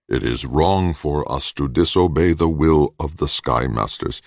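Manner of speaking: solemn, measured recitation; evenly weighted pronouncement; intoned. A narrator's reading. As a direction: intone it like a doctrine. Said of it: "Nks intoned".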